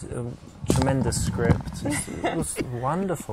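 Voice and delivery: effusive praise that rings false; sarcastic. Real, not acted. Man flattering his date's film taste, sarcastic. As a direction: heap on praise without meaning it. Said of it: "He sounds so sarcastic".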